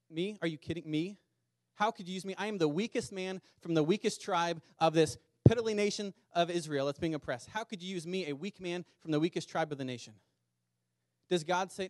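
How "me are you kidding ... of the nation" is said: Gideon protesting. Acted. Gideon voiced protesting to God.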